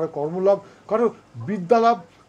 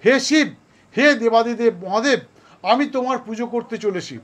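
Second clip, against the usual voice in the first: raised, fervent invocation to Shiva; prayer; 3 semitones higher than usual. Shown as a demonstration. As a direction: call out to the god with devotion. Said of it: "আপনারা বলবেন".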